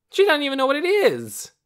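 put-on high, scornful child's shout; loud childish protest. A narrator's reading. Torin scorns Lena's ignorance of eggs, loud protest. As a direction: complain loudly at a high pitch. Boy protests in quarrel over egg.

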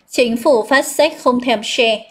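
slow, deliberate read for memorising; slow mnemonic recitation. Shown as a demonstration. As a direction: recite it slowly so learners memorise it. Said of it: "cô đọc lại câu tiếng Việt cho chúng ta học thuộc". (đọc chậm rãi cho dễ thuộc)

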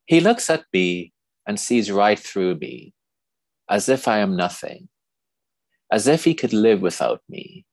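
measured poem reading with long pauses between lines; poetry reading. Acted. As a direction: read it as verse, line by line, letting each pause hang. Reads own poem aloud.

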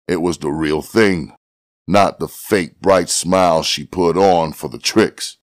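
ordinary delivery

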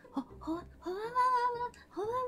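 soft breathy swooning "howawa"; soft airy swoon over a nice smell; dreamy fragrance sigh. Shown as a demonstration. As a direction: drift off as if smelling perfume. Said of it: "fragrantだから".

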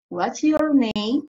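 slow, clear model of What's your name; slow model question. Shown as a demonstration. Teacher drilling the question for pupils, slow and clear. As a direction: stretch each word of "What's your name?" slowly. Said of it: "is the question".

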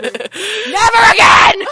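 Never again drawn out loud; stress on never. Real, not acted. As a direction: punch never again slowly. Emphatic refusal.

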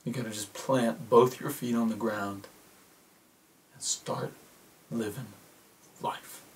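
gentle urging that fades very soft; Matt from Gravity. Acted. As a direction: let it sink to near silence. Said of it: "Matt from Gravity talking to Sandra".

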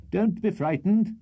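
high, slow reassuring call. A narrator's reading. Host to his frightened daughters, calling out.

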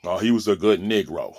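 lightly voiced old politician; a hint of a condescending old man; mock quote of a politician; mocking Biden. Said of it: "Who talks like that".

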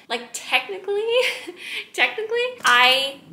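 high giggly aside; laughing. Real, not acted. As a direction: laugh through the words. Laughing about curls.

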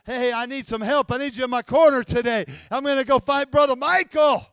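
a hint of a scheming devil asking for help; quick, casual devil recruiting; lightly voiced devil.

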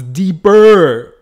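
slow, drawn-out put-on deep voice. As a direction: drop into a mock deep voice, slowly. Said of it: "Why am I talking like that?".

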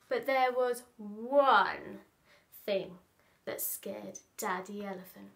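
expressive picture-book narration with stretched key words; animated children's storyteller; storytelling to children. Acted. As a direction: read it playfully, leaning on the big words.

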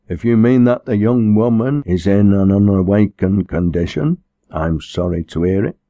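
a hint of pompous clerical reproof; preaching minister. Minister lamenting the girl's unawakened condition, lightly stern.

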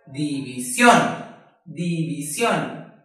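"división" slow, beat by beat, landing on "sión"; one voice beat per syllable in "división"; por golpes de voz. Shown as a demonstration. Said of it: "hacemos la división por golpes de voz". ("división" despacio, por sílabas, con peso en "sión")

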